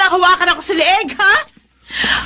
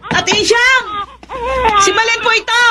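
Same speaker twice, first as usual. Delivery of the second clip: raised voice calling through the door; higher calling voice to reach the house; 6 semitones higher than usual. Acted. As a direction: call for her from outside. Calling neighbour from outside door.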